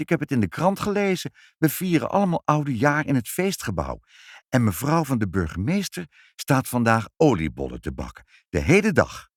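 a lightly voiced eager girl, fast at first; chatty little girl sharing news; child Ibbeltje. Girl tells her parents about the party, lightly voiced and eager.

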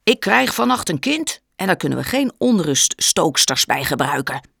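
shouting. Acted. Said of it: "schreeuwde hij".

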